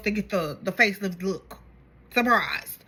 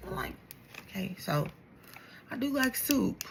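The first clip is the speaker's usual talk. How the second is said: deadpan aside; 4 semitones lower, 11 dB quieter than usual. Retold or imitated. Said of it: "I was like".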